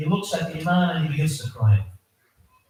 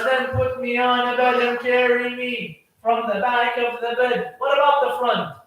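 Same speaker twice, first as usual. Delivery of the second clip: half-sung, sustained mourning chant; lamenting sermon recitation; 3 semitones higher than usual. A narrator's reading. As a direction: intone the death story as a lament. Mourning recitation of the Imam's death.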